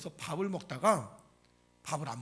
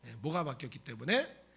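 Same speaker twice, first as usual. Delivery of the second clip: normal talking voice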